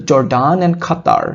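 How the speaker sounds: "Jordan and Qatar" read slowly with Qatar as khatar; drawn-out "Qatar" starting with a breathy kh; aspirated K in Qatar. Shown as a demonstration. Teacher repeating the line so students hear khatar. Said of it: "এখানে আমরা বলবো খাতার".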